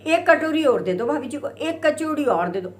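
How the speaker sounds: hammed-up ordering for bhabhi; mock calling out. Devar teasing, calling for more.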